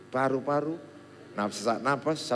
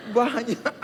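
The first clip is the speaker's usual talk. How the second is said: laughing relief; 13 semitones higher, 4 dB louder than usual. Retold or imitated. Relief seeing classmates fail too.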